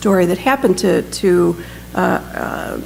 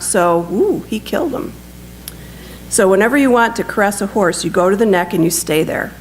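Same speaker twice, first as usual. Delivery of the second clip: measured storytelling with livelier pitch movement; lightly animated reading from a book; story narration. A narrator's reading. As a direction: read the war story aloud to an audience. Reads a written war story aloud.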